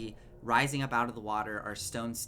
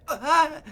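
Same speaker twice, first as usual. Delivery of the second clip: high, loud scream of pain; distant scream; 14 dB louder than usual. Acted. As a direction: shriek out in terror. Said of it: "You can hear those screams".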